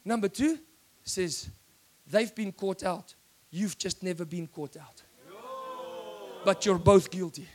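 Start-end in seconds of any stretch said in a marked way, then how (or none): 2.1-7.5 voice of God. Acted. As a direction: speak as the calm Holy Spirit, low and hushed. Preacher voices the Holy Spirit.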